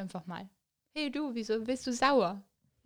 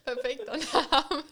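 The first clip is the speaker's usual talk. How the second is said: laughing; 3 semitones higher, slower than usual. Real, not acted. Laughing at the name.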